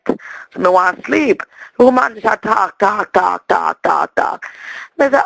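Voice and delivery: Jamaican auntie telling a story, patois throughout; Lena character voice. Acted. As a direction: hold the island auntie voice, chatty.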